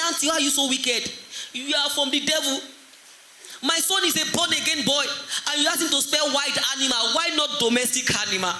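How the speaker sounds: high-pitched mock accusation; lightly acted mother telling off a teacher; indignant mother.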